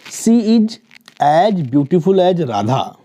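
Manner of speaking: as beautiful as Radha read out slowly; a teacher reading the model sentence slowly; slow example reading. Shown as a demonstration. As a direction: dictate the example slowly so each word is clear. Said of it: "देखिए as".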